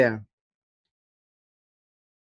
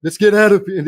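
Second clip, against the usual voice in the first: Sylvester Stallone; 2 semitones higher, 5 dB louder, faster than usual. Acted. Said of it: "Sylvester Stallone".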